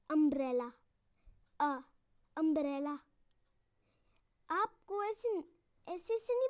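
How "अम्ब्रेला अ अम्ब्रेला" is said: अम्ब्रेला with open अ at the start; pronounce umbrella. Shown as a demonstration. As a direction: start अम्ब्रेला on a clear अ sound. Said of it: "अब दोस्तों आप इसको pronounce करो".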